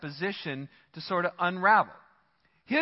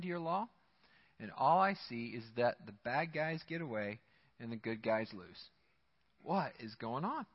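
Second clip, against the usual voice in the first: weary despair; 5 semitones lower, 3 dB quieter than usual. Retold or imitated. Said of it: "thirteen, he says".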